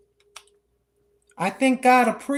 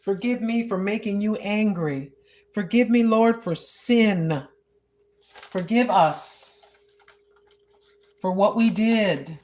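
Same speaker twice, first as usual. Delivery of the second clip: humble prayer. Retold or imitated. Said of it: "Just like that".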